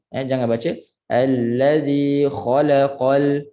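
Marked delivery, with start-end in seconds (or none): 1.1-3.5 "allazi khalaqal" recited with la hurried to half a beat; rushed la. Shown as a demonstration. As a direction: skim over the la in "allazi khalaqal". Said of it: "biasa dekat la itu kita terlaju". ("allazi khalaqal" dengan la terlaju)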